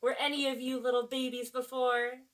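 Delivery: ordinary delivery, nothing marked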